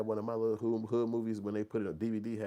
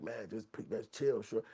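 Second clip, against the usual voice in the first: laid-back shrug; 3 semitones higher than usual. Retold or imitated. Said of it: "this nigga like".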